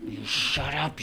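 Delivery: seething start before the blowup; Ren snarl. Acted. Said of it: "real screaming".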